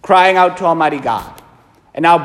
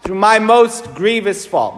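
breast-beating recitation; slower than usual. Shown as a demonstration. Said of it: "And then I beat my breast three times".

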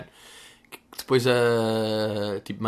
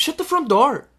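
high raised "Shut the front door." again with stress on "front"; prim substitute curse; 13 semitones higher, 4 dB louder, slower than usual. Shown as a demonstration.

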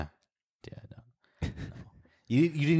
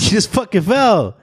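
higher, pointed disbelief; mock incredulous reply; 9 semitones higher, 5 dB louder than usual. Friend voices a bystander's disbelief, higher and pointed. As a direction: tell her she just fell, amused.

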